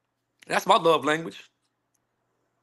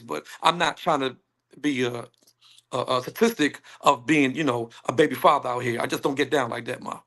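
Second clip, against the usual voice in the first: lower, measured reply; calm explanation; 6 semitones lower than usual. Acted. Man answering an imagined date about kids, calm. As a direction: explain it gently in a low voice. Acting his reasoned answer to her.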